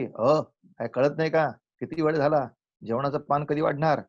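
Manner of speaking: impatient reproach, a little forceful; rude impatient demand. Shown as a demonstration. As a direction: demand it like giving an order. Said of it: "या संवाद पद्धतीपेक्षा".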